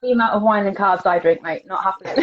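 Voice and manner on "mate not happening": laughing. Real, not acted. Laughing about her wine and carbs.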